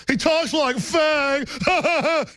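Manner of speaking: high, slow, dim-witted shouted jeer; dopey jeering voice. Retold or imitated. Mocking the smart man from the film, dopey shouted jeer. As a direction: yell it like a dumb movie character. Dumb future crowd in Idiocracy.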